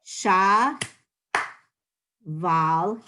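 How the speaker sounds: "Sha" et "val" détachés, appuyés, avec une pause entre; staccato. Shown as a demonstration. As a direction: syllabes séparées, fortes et marquées. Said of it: "I'm gonna say the first syllable, clap twice".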